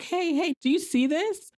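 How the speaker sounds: high excited whisper-shout; thrilled, pointing at the window. Retold or imitated. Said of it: "Piper's so excited".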